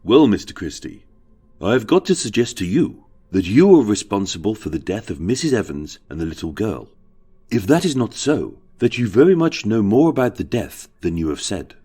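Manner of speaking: barrister boldly putting an accusation; confident courtroom cross-examination; bold statement. Acted. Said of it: "had boldly stated".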